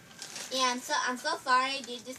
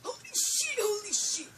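shocked; 6 semitones higher, slower than usual. Real, not acted. Shocked gamer reacting to death.

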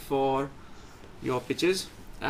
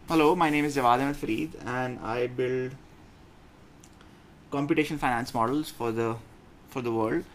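clearer, more confident pitch; better pitch. Shown as a demonstration. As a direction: pitch it with purpose. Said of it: "This is pitch number two".

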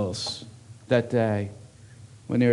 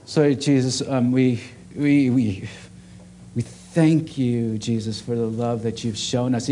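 prayer; 2 semitones lower than usual. Acted. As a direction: pray gently over the room. Leads a closing prayer.

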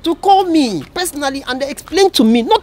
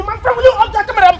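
higher-pitched indignant demand; angry order; 6 semitones higher than usual. Acted. Man ordering someone to stop filming him, angry. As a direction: order it sharply, affronted.

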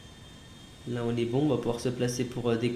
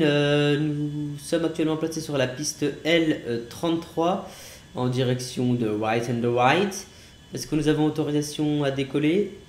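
pilot radio voice. Pretend. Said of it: "Commandant Unwin à l'appareil".

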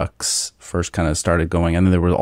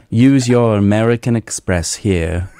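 a slow, louder TV ad voice pitched up; commercial voice; 4 semitones higher, 4 dB louder, slower than usual. Pretend. Mocking a TV commercial for fellow podcasters, slow and pitched up. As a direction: sell it like a credit card ad. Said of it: "it's like a commercial voice".

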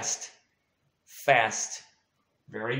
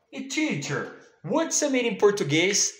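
higher, quick pupil voice asking the teacher; mock pupil asking; 6 semitones higher, faster than usual. Teacher plays a pupil asking the meaning. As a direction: pipe up like a curious child.

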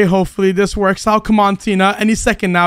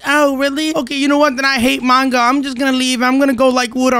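lightly voiced fangirl impression; imitating the fangirl; 2 semitones higher than usual. Prankster predicting the fangirl's reaction to Tina, mild imitation. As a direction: act out her huffy reaction, slightly put on. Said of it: "That's exactly how she sounds".

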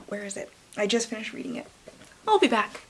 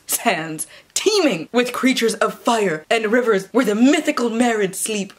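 hushed, ominous blurb read; dramatic reading. Acted. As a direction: read it like a fantasy trailer.

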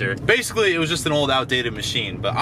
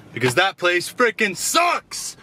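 fed-up rant; 5 semitones higher, slower than usual. Real, not acted. Ranting about bad burger.

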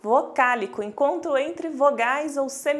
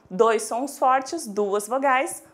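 slow emphatic; much slower than usual. Shown as a demonstration. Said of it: "stressing the strong sounds".

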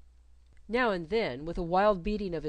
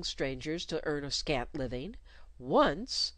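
a hint of mournful self-pity, lower; mournfully solicitous; 3 semitones lower than usual. Governess lamenting her hard lot, mournful. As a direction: sigh over her own lost fortune. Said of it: "mournfully solicitous".

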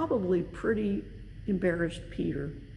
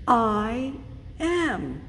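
reverent divine name. Acted. Preacher voices God naming himself to Moses, solemn. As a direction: speak the holy name with awe.

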